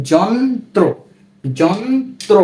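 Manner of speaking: যন্ত্র in two parts, যন-ত্র; র-ফলা fully sounded. Shown as a demonstration. Teacher showing the third rule, যন্ত্র with its ত্র fully sounded. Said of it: "আমরা কিন্তু ত রফলার উচ্চারণটা করছি".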